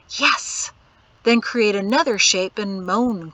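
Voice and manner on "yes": excited little whisper, pitched up. A narrator's reading. Boy alone with his wooden toy, whispering. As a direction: whisper it lightly, slightly voiced. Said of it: "create one shape and whisper".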